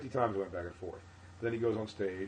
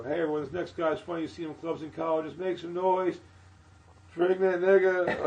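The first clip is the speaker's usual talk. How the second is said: higher, louder rushed club intro; quick host intro; 9 semitones higher, 8 dB louder than usual. Retold or imitated. Hosting a club set, hurried higher intro. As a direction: get through the intro fast and uneasy. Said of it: "So I go up there, I go".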